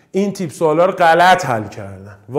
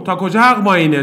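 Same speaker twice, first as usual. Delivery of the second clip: ordinary talk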